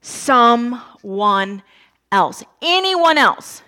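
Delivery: slow, drawn-out plea, rising at the end; pleading. Retold or imitated. Moses begging God to send someone else, slow pleading. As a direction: beg slowly to be let off. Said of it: "Moses pleads and says".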